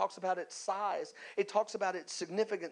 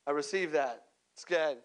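mock acceptance; 4 semitones lower than usual. Mock reply to vague prophecy.

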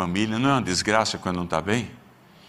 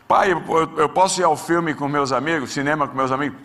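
put-on higher, louder kid asking permission; pleading son; 4 semitones higher, 3 dB louder than usual. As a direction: ask dad like a hopeful teenager.

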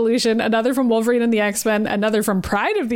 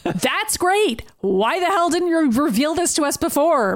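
sharp, higher angry outburst; 6 semitones higher, slower than usual. Acted. Maddie snapping at Sinister, angry. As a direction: snap at him for hiding it.

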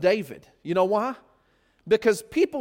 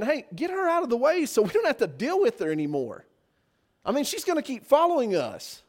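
higher-pitched, pestered whine; annoyed complaint; 5 semitones higher than usual. Acted. Disciples want the woman sent away, annoyed complaint. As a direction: press someone to deal with a nuisance.

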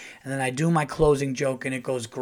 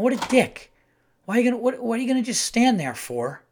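much higher, louder exasperated grumble; annoyed rant; 9 semitones higher, 3 dB louder than usual. Retold or imitated. Grumbling about the guy blocking the hallway, exasperated. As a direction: vent the irritation, incredulous.

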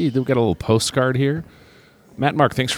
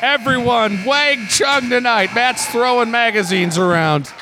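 excited; 9 semitones higher than usual. Real, not acted. Celebrating the lead.

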